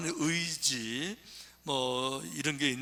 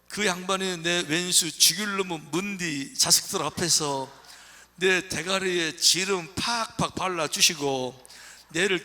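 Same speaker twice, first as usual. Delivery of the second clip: Gyeongsang dialect. Pretend. Pastor reading Psalm 23 to the congregation, in Gyeongsang dialect. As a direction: recite it like a rough Gyeongsang local, playful. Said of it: "저희 경상도 사투리인데".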